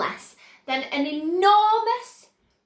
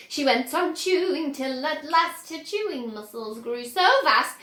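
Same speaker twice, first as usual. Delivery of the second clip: rhythmic poem recitation. A narrator's reading. Oompa Loompas singing their warning verse, bouncy chant.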